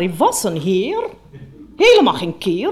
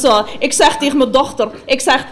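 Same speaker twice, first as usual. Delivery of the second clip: normal talking voice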